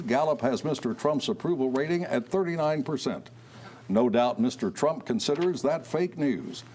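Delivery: measured news-anchor read; radio newscaster. Acted. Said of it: "like a radio newscaster".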